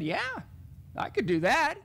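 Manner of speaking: lightly voiced student, easy-going. Mary agrees with the teacher, casual.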